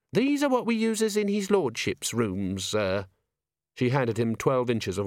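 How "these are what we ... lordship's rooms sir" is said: put-on high young maid voice. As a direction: voice the nervous maid, higher.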